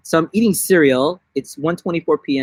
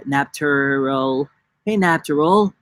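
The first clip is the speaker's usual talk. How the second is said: Naptural impression. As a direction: greet them in her voice, drawn out. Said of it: "That's my Naptural impression".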